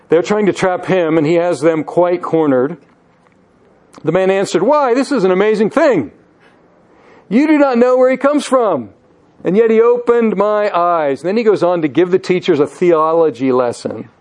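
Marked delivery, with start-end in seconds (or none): 4.6-11.2 higher-pitched, bold retort; emboldened. Acted. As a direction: answer back boldly, pitched up, mildly incredulous. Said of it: "Pretty bold on the part of this man".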